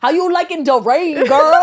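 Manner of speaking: mock yell, punching the last word; mimicked scream. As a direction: imitate a guy yelling a goofy greeting. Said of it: "not only does he scream".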